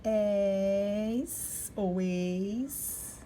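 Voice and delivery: "És" with a hissing S, then "ex" with a sh sound; teacher showing two sounds of the E with S; syllable demo. Shown as a demonstration. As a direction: give both ways to say "És" and "ex". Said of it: "Agora aqui com E".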